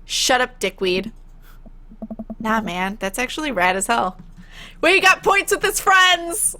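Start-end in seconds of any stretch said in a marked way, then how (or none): 4.8-6.6 high, slow, thrilled cheer; excited. Real, not acted. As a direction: savor the win, drawn out. Thrilled at winning friends' approval.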